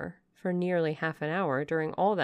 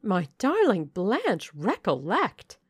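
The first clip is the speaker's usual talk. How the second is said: high, slow, pleading dowager voice; an anxious mother drawing out her plea; Lady Ingram; 3 semitones higher, 6 dB louder, slower than usual. Acted. Mother cautions her daughter Blanche, high, slow and pleading.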